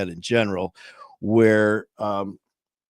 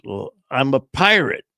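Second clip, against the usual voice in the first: put-on higher kid voice; pitched-up child's answer; little boy; 5 semitones higher, 4 dB louder than usual. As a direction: lightly play a small boy in costume. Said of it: "He goes".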